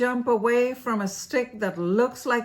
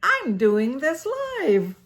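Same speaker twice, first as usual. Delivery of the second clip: higher, drawn-out drama queen cry; mock shout; 5 semitones higher, 3 dB louder than usual. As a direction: stretch it out like a diva grabbing the mic. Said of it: "and shouts".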